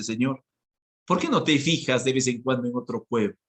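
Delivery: dry, ironic jab at God; ironic complaint. Acted. Job's people complaining ironically to God, wry and dry. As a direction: needle God with a wry question. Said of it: "Irónicamente le dice".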